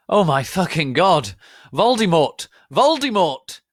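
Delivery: very high, very loud scream. A narrator's reading. Hedwig screaming Voldemort's name while making out, high loud shriek. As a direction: shriek the name at the top of the lungs. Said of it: "screamed Hedwig".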